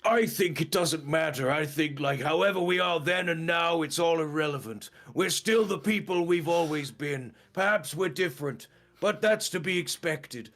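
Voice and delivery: Vegeta speech. Retold or imitated. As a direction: deliver a lofty big speech. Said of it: "he's like".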